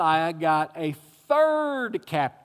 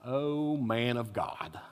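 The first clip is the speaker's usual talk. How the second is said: mock reverence, drawn out slow and low; 5 semitones lower, 6 dB quieter, slower than usual. Shown as a demonstration. Preacher mocking the prophet, slow sarcastic tone. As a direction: sneer the title as if you don't mean it. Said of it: "like he was mocking him".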